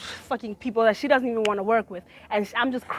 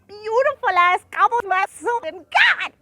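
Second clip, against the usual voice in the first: mock swooning; 11 semitones higher, 5 dB louder than usual. Excited praise of a woman.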